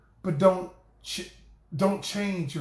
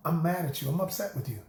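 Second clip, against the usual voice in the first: calm, level statement of anger, no heat; just name the feeling evenly and keep the voice down; saying the emotion calmly; 2 semitones lower, 3 dB quieter, faster than usual. Shown as a demonstration. To a spouse, naming the anger without showing it: calm and even. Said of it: "I said the same thing".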